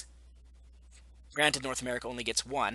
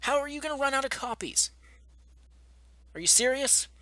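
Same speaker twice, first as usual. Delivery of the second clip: much higher, louder, fed-up disbelief; real incredulous shout; exasperated outburst; 12 semitones higher, 5 dB louder than usual. Real, not acted. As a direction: throw up your hands at the store. Exasperated rant at store.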